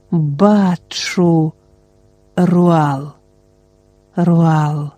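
a hint of a fragile doll-like voice, drifting away; lightly voiced, distant and small as a porcelain doll; faint trance voice calling a name from far off. A narrator's reading. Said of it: "Голос її зробився слабким-слабким, якимось ляльковим".

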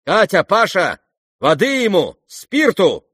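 high, loud urgent orders; commanding call. Acted. Nastasya Filippovna to her maids, crying orders. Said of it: "крикнула Настасья Филипповна".

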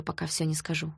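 ordinary delivery

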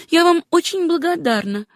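high-pitched female character voice; grateful heroine. Acted. Susanna thanks the doctor.

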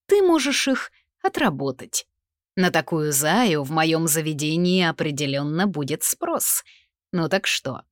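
sleazy menacing boss voice; leering gangster. Acted. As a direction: lean in, leering and smug.

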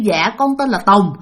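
polite, even and gentle, with a respectful "Dạ"; polite answer. Shown as a demonstration. Narrator showing the polite way to answer, gently respectful. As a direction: answer politely like a proper child. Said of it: "Thí dụ như".

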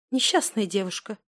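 ordinary delivery

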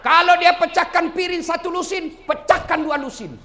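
loud, high rallying exhortation; full-force preaching. Acted. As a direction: rouse the husbands with punched phrases. (seruan ceramah lantang membakar semangat)

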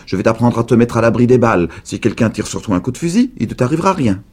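voix de vieille plus forte, pressée à la fin; vieille dame qui promet. A narrator's reading. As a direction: vanter ses secrets avec ardeur. Vieille dame promet des secrets. (la vieille dame appâte Charlie avec ses secrets)

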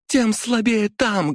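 high, slow stressed тем; high taunting heroine; high defiant woman. A narrator's reading.

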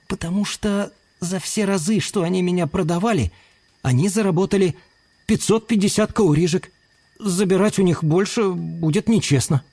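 put-on high-pitched young chameleon voice; little chameleon, earnest. Chameleon explains the fair price to his thief friend, earnest high voice.

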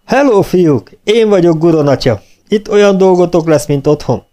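jovial sergeant welcoming recruits; encouraging welcome. A narrator's reading. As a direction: greet them loudly and cheerily like a jovial father. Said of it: "Mosolygott és biztatóan üdvözölte".

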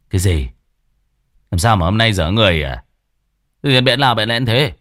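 brusque, impatient questioning, fast; gruff husband. Acted. Husband brushes off his shy wife, fast and impatient. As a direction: snap at her to get on with it.

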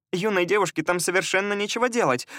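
chirpy sweet lady voice, lightly voiced; cartoon princess. A narrator's reading. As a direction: prattle like a silly sweet lady. Elizia complains.

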